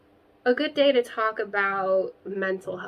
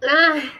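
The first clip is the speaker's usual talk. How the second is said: sneeze; 6 semitones higher, 10 dB louder than usual. Real, not acted. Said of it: "Oh, I'm gonna sneeze".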